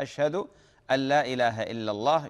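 أن kept short and light, no doubled n; "أشهد أن لا إله إلا الله" with أن barely touched; light an, no doubling. Shown as a demonstration. Repeating the correct call to prayer for the caller, light أن. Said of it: "يقدم، يخفف ال-، أن".

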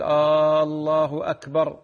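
"الله" begun with a long, loud held aa; questioning long opening. Shown as a demonstration. Sheikh mimicking people's mistake, questioning long opening. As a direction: stretch the first vowel into "آلله أكبر", aallaahu akbar. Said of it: "كأنك الآن تستفهم".

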